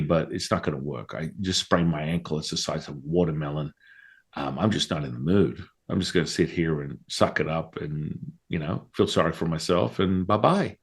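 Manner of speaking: quiet, sorry-for-myself whine; mopey self-pity. Retold or imitated. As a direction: mope it out softly. Friend with sprained ankle.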